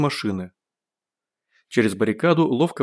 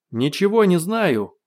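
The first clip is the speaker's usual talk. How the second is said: high, slow, drawn-out cry; defiant shout; 6 semitones higher, slower than usual. A narrator's reading. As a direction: shout it back, stretching each word. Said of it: "крикнул гость". (протяжный выкрик)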